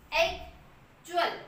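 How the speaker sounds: एक्चुअल drawn out slowly, each syllable clear; slow demo word. Shown as a demonstration. Teacher slowly models एक्चुअल for the class. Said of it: "हम यहाँ पे pronounce कर रहे हैं".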